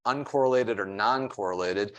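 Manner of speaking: "uncorrelated" and "non-correlated" each given weight, spaced by pauses; stressing the words. Shown as a demonstration. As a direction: lean on "uncorrelated or non-correlated" so the terms stand out. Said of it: "I wanna stress that word".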